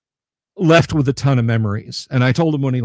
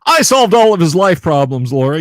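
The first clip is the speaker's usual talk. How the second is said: mock boastful; 3 semitones higher, 7 dB louder than usual. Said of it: "don't wanna get too full of myself".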